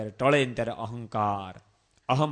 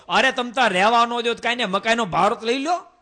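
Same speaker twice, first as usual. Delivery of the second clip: high, loud begging through the door; loud pleading; 11 semitones higher, 8 dB louder than usual. Retold or imitated. Old mother begs her son at the locked gate, loud plea. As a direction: beg him loudly to take the bundle.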